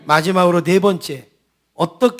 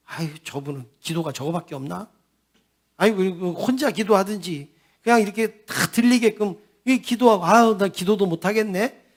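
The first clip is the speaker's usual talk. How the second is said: softer irritated muttering to himself; annoyed grumble; 3 dB quieter than usual. Retold or imitated. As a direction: grumble under your breath, fed up. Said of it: "짜증이 난 거예요". (짜증 섞인 혼잣말)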